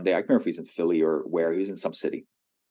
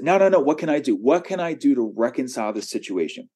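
eager pleading; 6 semitones higher than usual. Retold or imitated. Pastor eagerly offers to make amends.

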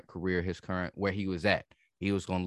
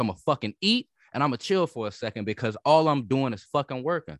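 mock-defiant hustler who can't afford dreams; devil's advocate rant. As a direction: push back hard, playing the other side on purpose. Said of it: "trying to play devil's advocate".

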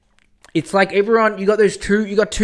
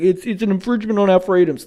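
mock anti-masker; 3 semitones higher, 5 dB louder than usual. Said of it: "everyone's like".

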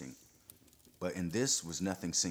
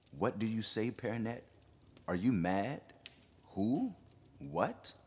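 rising, incredulous bewilderment; astonished questions; 4 semitones higher than usual. Acted. Bewildered don asking Perronet, astonished. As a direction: ask in disbelief.

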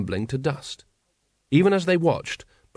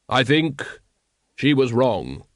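Death; slower than usual. A narrator's reading. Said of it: "said Death".

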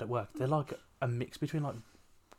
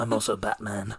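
laughing; 5 dB louder than usual. Acted. Joke continuation laughing.

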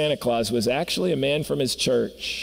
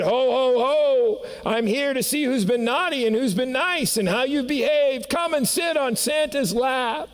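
higher, hearty ho ho ho, shouted at the end; booming Santa; 9 semitones higher than usual. Acted. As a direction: boom it out like a trumpet. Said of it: "his voice was like a trumpet".

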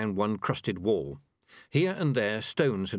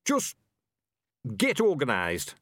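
muttered; 4 semitones higher than usual. A narrator's reading. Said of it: "he muttered".

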